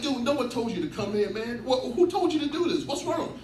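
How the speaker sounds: playing his grumpy half-awake self; mock upset dad. Woken dad yelling at kid.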